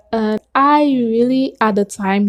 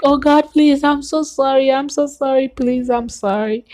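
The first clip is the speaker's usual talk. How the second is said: retold crying plea; 5 semitones higher than usual. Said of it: "so I just run in the room crying like".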